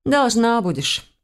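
slow, yawning aside; through a yawn. A narrator's reading. Bored she-devil naming her price, yawning. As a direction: stretch it out as if mid-yawn, unbothered. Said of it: "зевнув, добавила".

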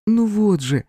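high, loud exclamation; exclaiming. Acted. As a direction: cry it out eagerly. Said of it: "воскликнула Венера".

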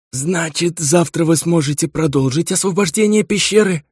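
put-on high old dwarf voice; dwarf patriarch. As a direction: ask as a stern old patriarch. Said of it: "подал голос патриарх Каруба Вардун".

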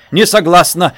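loud, sharp refusal. A narrator's reading. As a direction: bite it off hard. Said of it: "резко сказала мать". (резко)

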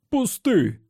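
high pained shriek of protest; squealing. A narrator's reading. Slightman in pain from the elbow grip, squealing. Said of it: "верещав Слайтман".

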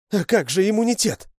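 put-on shouting girl. Lyusya screaming at the dog about immunity, high and loud. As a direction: cry out in panic. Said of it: "закричала Люся".

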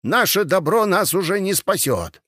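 toothless mumble. A narrator's reading. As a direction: mumble it like a toothless old soldier. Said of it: "прошамкал он беззубым ртом".

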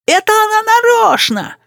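put-on high indignant child yelling; boy's yell. A narrator's reading. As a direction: yell like a spoiled little boy. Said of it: "вопил между тем рис". (капризный детский крик)

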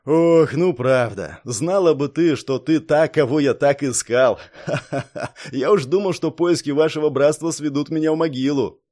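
loud relieved laughing speech; relieved laughter. Acted. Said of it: "Ворон облегчённо рассмеялся".

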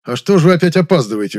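loud reproach; reproachful. Acted. Director scolding the late actress loudly.

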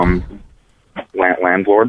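repeating through a mouthful of toothpaste; mumbled around toothpaste foam. Real, not acted. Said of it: "Sorry, I have toothpaste in my mouth".

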